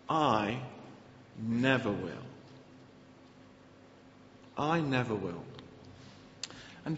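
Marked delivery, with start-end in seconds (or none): 0.1-5.4 quiet vow. Acted. Peter vows quietly after protest.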